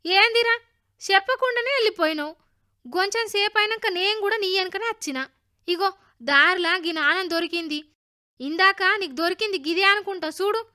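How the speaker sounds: put-on high, animated boy's voice; friend Linga, reproachful then helpful. A narrator's reading. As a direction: call a friend out, then offer the find.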